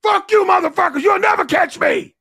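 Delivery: high, loud, gleeful mock yell; acted taunting shout. Drunk driver to guards on another pass, acted taunting shout. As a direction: holler a getaway taunt at the guards.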